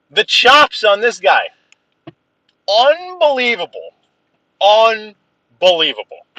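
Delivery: loving exasperation. Real, not acted. Friend teases in the chat.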